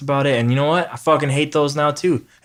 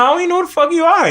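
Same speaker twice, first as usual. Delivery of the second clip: laughing rant; 3 dB louder, much faster than usual. Retold or imitated.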